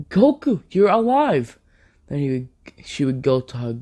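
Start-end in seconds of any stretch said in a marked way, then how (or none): 0.1-1.6 high-pitched exclamation of joyful disbelief; astonished cry. Acted. Bulma finding Goku still alive, astonished. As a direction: cry out as if seeing someone thought dead.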